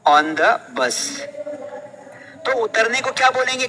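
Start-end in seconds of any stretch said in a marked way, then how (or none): 0.1-1.2 very slow dictation. Shown as a demonstration. Teacher dictating phrase.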